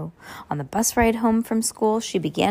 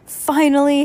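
louder, higher relief; impatient relief; 6 semitones higher, 6 dB louder than usual. Acted. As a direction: blurt it out at last. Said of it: "Henry said".

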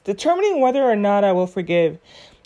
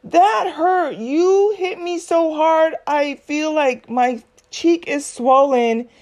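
just got slapped; 5 semitones higher, slower than usual. Pretend. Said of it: "consider how the hurt and pain has affected you".

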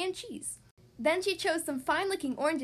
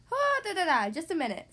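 flustered Papa; 3 semitones higher, 3 dB louder than usual. Acted. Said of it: "said Papa".

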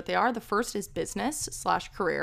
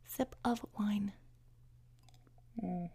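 whispered aside; 10 dB quieter, slower than usual. Real, not acted. Aside while grabbing wine.

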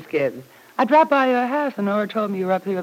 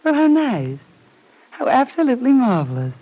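sarcastic; 4 semitones higher than usual. Acted. Jealous rival loses the job.

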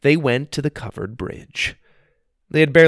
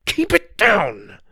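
urgent hush; 8 semitones higher, 4 dB louder, slower than usual. Acted. Wonka hushing urgently.

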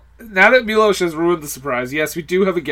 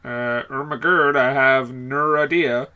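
Ermahgerd voice; 4 semitones lower, 4 dB quieter than usual. Pretend. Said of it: "It's the Irma Gerd Burks girl".

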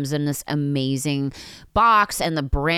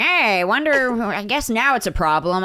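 sarcastic; 6 semitones higher, 4 dB louder than usual. Retold or imitated. Sarcastic quote of her reaction.

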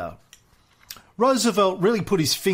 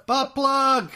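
laughing shout; 7 semitones higher, much slower than usual. Real, not acted. Joking callout, laughing.

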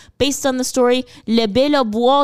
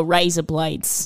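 Australian accent; 4 semitones lower, 3 dB quieter, slower than usual. Shown as a demonstration. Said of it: "Give me a word".

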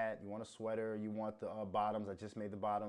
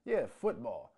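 louder, offhand mock quote of Americans; mock American saying football; 3 semitones higher, 6 dB louder, slower than usual. Mocking Americans who call soccer football. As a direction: sneer it like a sellout fan would. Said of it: "When you start hearing Americans say".

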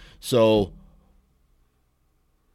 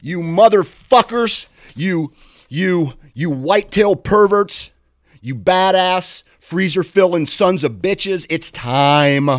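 roaring hype-man yell, much higher and louder; wrestling promo; 10 semitones higher, 12 dB louder, slower than usual. Pretend. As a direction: bellow it like a WWE promo. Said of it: "I sound like doing a wrestling promo".

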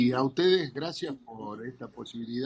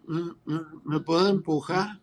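put-on stammering drunk, voice pushed higher; drunk neighbour; 4 semitones higher, 4 dB louder than usual. Drunk neighbour begging a favour at the door, slurred stammer. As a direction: stumble over the words like a drunk. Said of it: "borracho mal".

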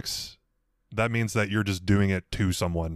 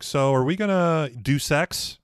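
Dina voice; 6 semitones higher, slower than usual. Retold or imitated. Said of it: "she's like".

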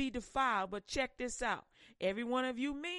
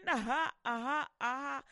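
imitating a spirit's sly chuckle; a short mocking ha-ha; mocking demon laugh. Mocking laugh of spirits at the worshippers. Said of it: "And they laughing".

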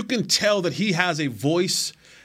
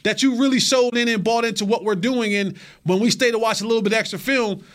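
higher-pitched teammate calling someone out; acted confrontation; 4 semitones higher than usual. Teammate to player skipping treatment and extra film, mock confrontation. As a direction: act out challenging a slacking player, pitched up.

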